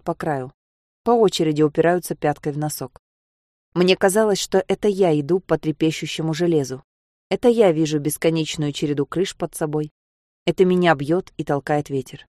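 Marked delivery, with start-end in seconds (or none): none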